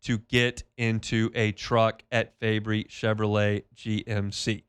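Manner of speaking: upbeat host-read sponsor spot; live dealership spot read by the host; radio ad read. Acted.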